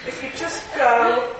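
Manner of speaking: slow, tentative mock plea; mock meek request. Preacher mocking Christians who ask the devil nicely, tentative. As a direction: parody asking someone ever so politely. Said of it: "If I took that attitude".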